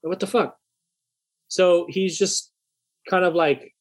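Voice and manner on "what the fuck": heated. Retold or imitated. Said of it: "I was kinda heated in the truck".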